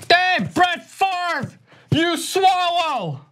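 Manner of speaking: put-on slow, high heckling yell in a Chicago accent. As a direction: heckle like a Chicago football fan. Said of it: "hardcore Chicago accent".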